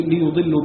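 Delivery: ليضلوا as "li-yudillu", u after the y; damma on ya. Shown as a demonstration. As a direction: say "yu" clearly in ليضلوا. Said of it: "بضم الياء فيهما". (ليُضلوا بضم الياء)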